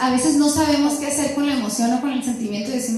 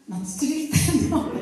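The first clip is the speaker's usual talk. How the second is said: protesting through a laugh, voice pitched up. Retold or imitated. Wife to husband after he walks out: protesting through a laugh. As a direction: insist you're not yelling while half laughing. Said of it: "yo dije".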